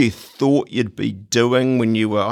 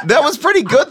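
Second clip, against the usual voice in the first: laughing; 6 dB louder than usual. Real, not acted. Host laughing after the performance.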